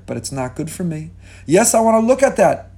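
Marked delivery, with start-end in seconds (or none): 1.5-2.8 tempted inner voice. Retold or imitated. Voicing the inner urge.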